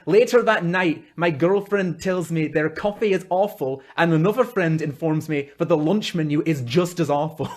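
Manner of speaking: badly faked Scottish accent; amateur Scottish, slipping into British. Shown as a demonstration. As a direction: read it in a clumsy put-on Scottish. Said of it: "that's bad accent".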